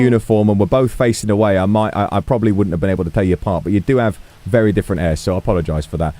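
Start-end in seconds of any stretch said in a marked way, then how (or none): 1.6-6.1 put-on a flustered, modest old police chief; lightly voiced shy old man; bashful old chief.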